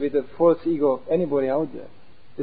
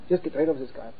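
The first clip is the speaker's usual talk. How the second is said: quiet inner voice; 6 dB quieter than usual. Retold or imitated. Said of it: "Just tell him".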